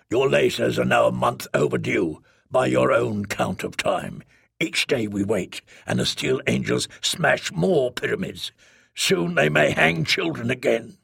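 lightly voiced bitter leader, a little low; a hint of cold reproach; bitter speaker. Bitter speaker rebukes the trader over overdue lasers, restrained bitterness.

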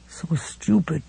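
drained, flat-toned murmur; dull. A narrator's reading. Battered wife to Ralph, dull and soft. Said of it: "she said dully".

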